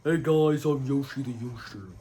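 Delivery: loud, bright character greeting; Yoshi voice. Retold or imitated. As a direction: greet like a goofy cartoon character. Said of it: "His voice was, I best described as".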